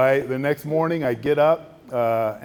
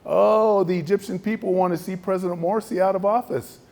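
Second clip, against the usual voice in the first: lightly raised, confident claim; a hint of the official; 6 semitones higher than usual. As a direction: state it as settled fact. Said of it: "He goes".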